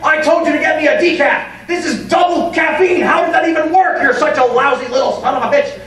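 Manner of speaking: bully yelling. Retold or imitated. Bully employee yelling at Jimmy over coffee, mock yell. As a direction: berate the intern like a petty bully.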